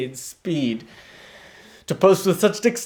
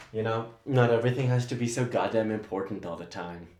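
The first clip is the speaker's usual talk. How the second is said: fast and exasperated; 5 semitones lower, 8 dB quieter, faster than usual. Acted. Assistant's rapid tirade.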